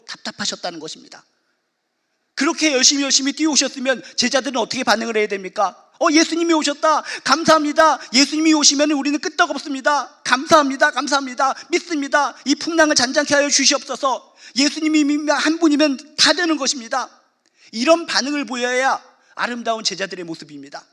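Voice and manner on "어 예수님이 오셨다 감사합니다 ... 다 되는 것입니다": bright, higher, louder voice of thankful disciples; grateful believers. Retold or imitated. Disciples greeting Jesus, higher and louder with thanks.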